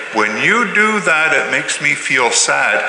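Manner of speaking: slow, gentle and sincere; calm I-statement. Shown as a demonstration. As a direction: show the calm way to say it. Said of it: "I bet you if you say".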